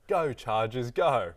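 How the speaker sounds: mock the co-host's failed accent; mimicking a poor impression. Teasing co-host over the first attempt, mock impression. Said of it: "The first one was like".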